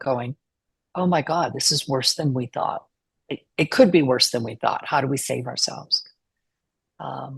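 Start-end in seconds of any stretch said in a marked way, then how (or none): none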